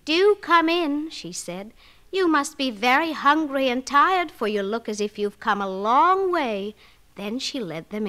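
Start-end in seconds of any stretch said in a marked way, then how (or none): 0.1-1.1 put-on high, slow, sugary old woman; sweet witch. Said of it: "spoke very sweetly". 2.1-6.7 sweet witch. Acted. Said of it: "spoke very sweetly".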